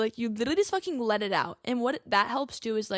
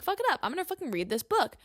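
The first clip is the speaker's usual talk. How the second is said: fired-up decision; 5 semitones higher, faster than usual. Retold or imitated. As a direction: pump yourself up to read it. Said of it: "And so I'm like".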